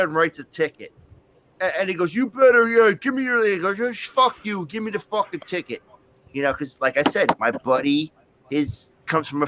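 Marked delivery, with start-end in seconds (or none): 2.1-3.4 imitated cop order, higher and louder; mock stern cop. Cop demanding papers from the driver, mock angry. 4.0-5.8 higher-pitched imitation of a contemptuous buddy; mock defiance. Buddy to the cop who pulled him over, mock defiant.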